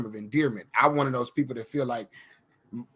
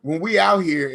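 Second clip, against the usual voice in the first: louder, casual homie voice; bro talk; 4 dB louder than usual. Retold or imitated. With Matt in LA, louder casual bro voice. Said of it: "and I'm like".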